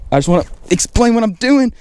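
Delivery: high, giggly disbelief at the fish; laughing excitedly. Real, not acted. Angler laughing to viewers as fish keep hitting, high excited laugh. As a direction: laugh through it, can't believe the action.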